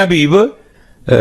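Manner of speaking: high, drawn-out call of his name; wife calling out. Retold or imitated. Wife greeting Habib at the door, high and drawn out.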